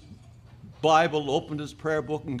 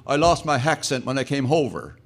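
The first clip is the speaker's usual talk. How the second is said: put-on joking Newfoundland accent with added aitches; Newfie accent; 3 dB louder than usual. Newfie denying he has any accent, in Newfie accent. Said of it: "You don't have an accent like a newfie".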